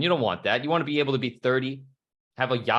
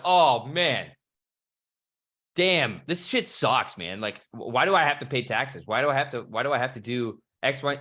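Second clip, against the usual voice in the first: whiny complaining. Retold or imitated. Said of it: "bitch and moan about".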